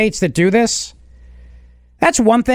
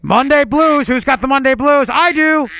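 morning DJ voice; 7 semitones higher than usual. Shown as a demonstration. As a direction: belt it like a cheesy radio host. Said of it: "This is how the show's gonna start".

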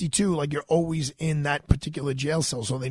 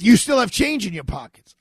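louder, higher nagging call-out; mean accusation; 6 semitones higher, 6 dB louder than usual. Retold or imitated. Mean guard at the scanner scolding him, loud and accusing. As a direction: catch him out, loudly. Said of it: "She's like".

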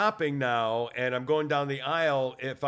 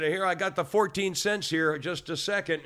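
raised, higher-pitched retold call; yelling; 3 semitones higher than usual. Customer telling cashier he has coins, mildly yelling. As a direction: pipe up as if through a glass barrier. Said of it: "I'm sorry, I'm yelling now".

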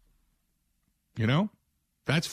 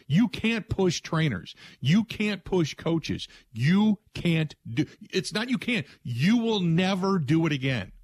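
slow, higher-pitched emphasis on each word; emphatic warning; 5 semitones higher, slower than usual. Acted. Coach warning players off shoving staff, slow and emphatic. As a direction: lay down the law, word by word. Acting the coach laying down discipline.

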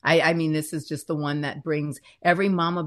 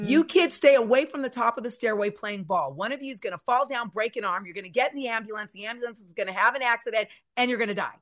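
mom's anxious warning, a bit higher and quicker; imitating mom; 5 semitones higher, faster than usual. Daughter imitating her worried mom, lightly voiced warning. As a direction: rattle off mom's doom chain. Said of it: "my mom used to always".

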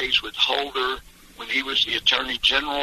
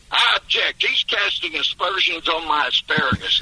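high, indignant courtroom outburst; indignant objection; 6 semitones higher than usual. Retold or imitated. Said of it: "sit down indignantly".

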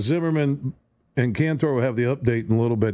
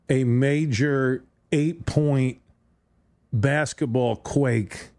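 slow dramatic build; much slower than usual. Acted. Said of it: "dramatic slow emphasis".

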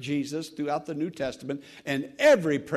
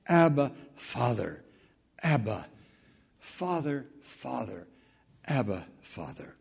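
intimate, reverent hush; tender prayer; 4 semitones lower than usual. Acted. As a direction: breathe "Abba, Father" like a child's prayer. Tender prayerful repetition of Abba.

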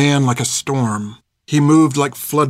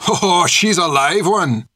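rough character voice, drawn out and raised in pitch; rough-voiced soldier; 6 semitones higher, slower than usual. A narrator's reading. Soldier remarking on the struggling captive, rough-voiced. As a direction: crow over her in a rough soldier's voice. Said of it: "said the rough, low voice".

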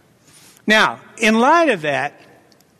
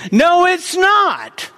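emphatic denial; 6 semitones higher, much slower than usual. Real, not acted. Rebuts the enemy's claim.

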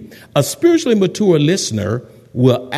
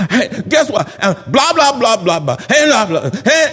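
hammed-up worked-up blabbering; mock angry venting; 3 semitones higher than usual. Upset churchgoer venting to a listener, mock angry. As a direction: rattle off a mock tirade. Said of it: "And they all mad".

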